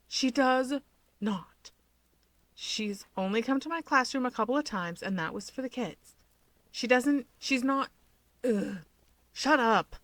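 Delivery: high, flustered protest; flustered denial. Acted. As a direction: deny it, embarrassed and rattled. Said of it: "Fuyumi denies".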